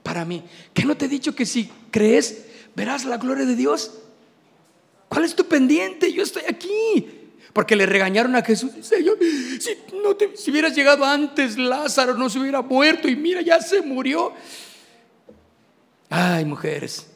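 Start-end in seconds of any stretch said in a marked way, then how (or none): 0.7-7.2 loving scolding. Acted. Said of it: "un regaño de mucho amor". 8.8-14.3 mock complaining woman. Martha's reproach acted.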